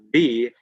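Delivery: V with teeth on lip, onset held; demonstrated V sound. Shown as a demonstration. Teacher showing teeth touch the lip, drawn-out V. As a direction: buzz a long v into "V". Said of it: "your teeth touch your lip".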